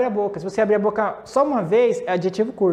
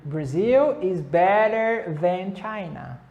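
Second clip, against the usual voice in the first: each word said slowly and clearly; slow model answer; slower than usual. Shown as a demonstration. Teacher slowly models an answer for students to copy. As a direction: spell the answer out slowly for learners. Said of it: "Aí você pode responder".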